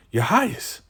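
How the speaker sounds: small high plea; high timid call. Retold or imitated. Zane calling out to leader.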